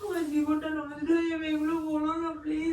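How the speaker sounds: tearful begging; weeping plea; crying. Real, not acted. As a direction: beg weakly through sobs. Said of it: "কান্না করো না".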